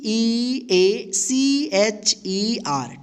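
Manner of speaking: each letter spelled out very slowly; slow letter-by-letter spelling. Shown as a demonstration. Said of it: "टीचर". (अक्षर धीरे-धीरे बोलना)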